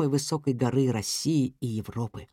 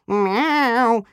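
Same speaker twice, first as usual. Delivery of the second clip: cat cry; 6 semitones higher, 5 dB louder than usual. A narrator's reading. Trapped cat cries out.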